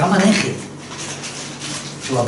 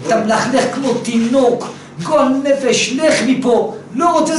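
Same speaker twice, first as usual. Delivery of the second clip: mock angry yelling; 4 semitones higher, slower than usual. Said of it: "קם, צעק עליו".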